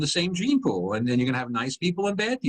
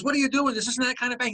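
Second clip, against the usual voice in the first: high-pitched, startled objection; protesting bank clerk; 10 semitones higher than usual. Acted. Sperm bank lady objects to a masked robber, protesting. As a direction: object in a much higher voice.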